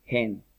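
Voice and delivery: "Hen" said like "jen"; aspirated H. Shown as a demonstration. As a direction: sound the H in "Hen" like a J. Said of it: "Con J".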